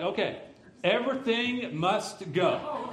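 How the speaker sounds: mock fire-sale announcement, rising on the end; sarcastic sales pitch. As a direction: play up the joke like a closing-down sale. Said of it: "But sarcasm to one side".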